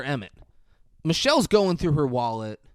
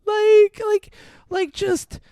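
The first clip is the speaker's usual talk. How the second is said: mock panic; 7 semitones higher than usual. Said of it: "She's panicking and goes".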